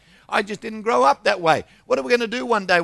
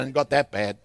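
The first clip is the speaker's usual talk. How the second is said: laughing retort; 4 semitones lower than usual. Retold or imitated. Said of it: "He said".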